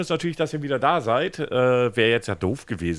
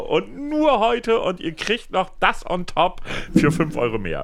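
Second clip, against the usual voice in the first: high, slow pitchman voice; chipper 1950s ad; 7 semitones higher, slower than usual. Acted. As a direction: hype it like a TV shopping host. Mocking TV sales ad.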